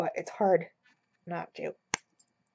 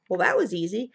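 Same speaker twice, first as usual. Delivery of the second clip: whispered imitation of the Staples easy button, lightly played. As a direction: breathe it out like an ad slogan button. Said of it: "that easy button from Staples".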